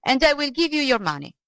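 high, urgent bargaining plea; acted begging of an old man. A narrator's reading. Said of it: "begged the old man".

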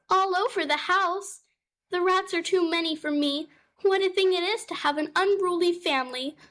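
high, fussing cat voice; fretful mother cat. Acted. Mother cat Tabitha greeting her cousin, high and fretful.

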